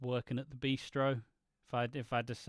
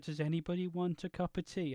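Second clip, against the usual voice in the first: higher-pitched silly imitation; dumb voice; 4 semitones higher, 3 dB quieter than usual. Quoting her offer of a cup of tea, dumb voice. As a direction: put on a daft voice, pitched up. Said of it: "me saying it in a dumb voice".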